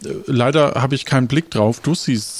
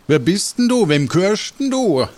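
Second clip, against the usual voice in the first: gruff guard voice; 7 semitones higher than usual. Acted. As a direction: challenge the stranger. Gatekeeper Seppo greets stranger.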